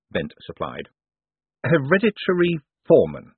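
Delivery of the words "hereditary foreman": flat echo of the words, a touch bewildered; blankly repeated. A narrator's reading. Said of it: "Moist repeated blankly".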